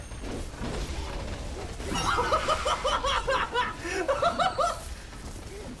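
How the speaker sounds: high, long burst of laughter; laughing fit. Real, not acted. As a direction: burst out in high-pitched giggles. Bursts out laughing while playing.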